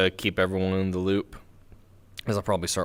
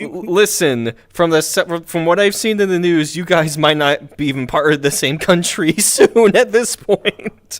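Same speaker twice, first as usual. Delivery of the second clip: mock grave teasing; 8 semitones higher, 9 dB louder than usual. Teasing Canada.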